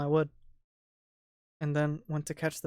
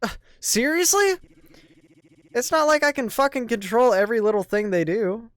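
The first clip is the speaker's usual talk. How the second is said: exasperated, scornful complaint; irritated; 7 semitones higher, 10 dB louder than usual. Acted. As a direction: scoff at her, annoyed. Krovan exasperated.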